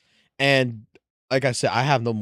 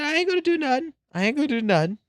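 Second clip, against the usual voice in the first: innocent high voice; 13 semitones higher, much faster than usual. Retold or imitated. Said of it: "I said".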